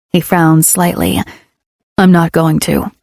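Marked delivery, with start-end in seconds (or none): 2.0-2.9 low male character voice; lower, gruff man's reply; deeper male voice. A narrator's reading. Ledger answers her, male voice.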